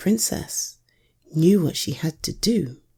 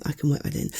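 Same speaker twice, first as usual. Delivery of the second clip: muttered under the breath, unvoiced; whispered to self; 6 dB quieter, much faster than usual. Real, not acted. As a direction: say it again quietly to yourself.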